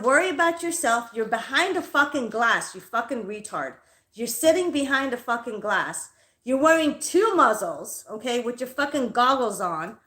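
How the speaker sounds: heated retelling of a telling-off; retold flipped-lid outburst. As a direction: replay the angry comeback, punching the openings. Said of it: "I fucking flipped my lid".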